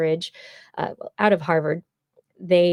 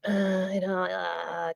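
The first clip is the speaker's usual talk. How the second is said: conflicted; 7 dB quieter, slower than usual. Shown as a demonstration.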